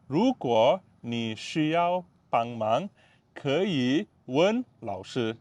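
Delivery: 如果你需要帮忙 drawn out syllable by syllable; teacher spelling it out slowly; slow, clear classroom read; slow demo. Shown as a demonstration. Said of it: "Slow, ah".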